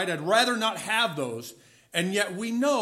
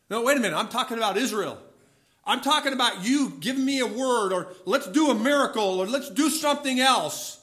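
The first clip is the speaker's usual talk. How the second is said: laughing protest; 3 semitones higher, faster than usual. Retold or imitated. Prophet protests God, laughing.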